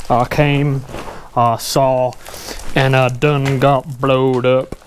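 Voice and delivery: lightly voiced hillbilly quote; Ernest P Worrell voice. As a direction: drawl it out slow like Ernest. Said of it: "As Ernest P Worrell would say".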